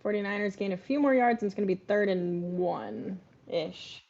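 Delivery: mock TV announcer; play-by-play. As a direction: call the down like a commentator. Play-by-play of game.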